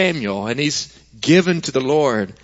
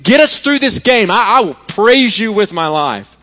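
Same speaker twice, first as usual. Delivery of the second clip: loud, high pleading to God; desperate prayer; 5 semitones higher, 3 dB louder than usual. Retold or imitated. Fan praying loudly to God during the game, desperate plea. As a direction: beg God like a fan in the final minutes. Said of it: "offering up prayers to God".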